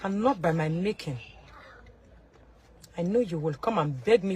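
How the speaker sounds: whispered aside; hushed hint of hidden power. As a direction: breathe it as a secret.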